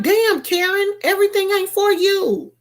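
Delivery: high, sassy clapback; high mocking put-down; sassy retort. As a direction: tell her off with high-pitched sass. Retorting to Karen online.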